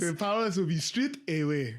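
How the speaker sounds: light Forrest Whitaker impression, laughing; a laughing hint of Forrest Whitaker. Quoting Forrest Whitaker to the host, laughing. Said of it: "again, Forrest Whitaker".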